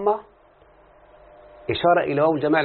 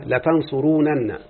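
slow demo; much slower than usual. Shown as a demonstration. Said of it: "ها".

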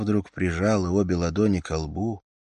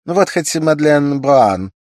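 higher and louder idle chatter; raised voice; 9 semitones higher, 9 dB louder than usual. A narrator's reading. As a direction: raise your voice for the man next door. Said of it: "Она снова возвысила голос".

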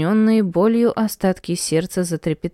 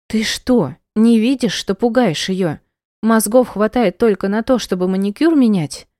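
louder, higher furious reproach; angry rebuke; 4 semitones higher, 3 dB louder than usual. Acted. Heroine scolding the cruel mother, angry. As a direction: tell her off angrily.

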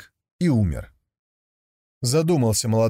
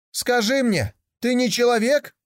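put-on young tiger calling out; 12 semitones higher than usual. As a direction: shout the question to the camel. Tiger calls to camel.

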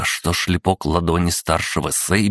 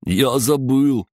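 high, slow mock forgetfulness; playful torturer; 9 semitones higher, 4 dB louder, slower than usual. Torturer loses count over his victim, playful high voice. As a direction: stretch it out high, toying with them.

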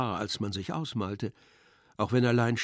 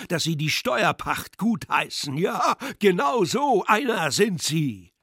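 angry accusation; 4 semitones higher, 5 dB louder than usual. Acted. The clerk's rant continues.

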